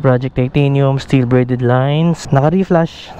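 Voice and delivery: through closed helmet visor; on a motorcycle; speaking inside a helmet. Real, not acted. Seen 0: Rider wears closed full-face helmet on motorcycle throughout; mic position unknown.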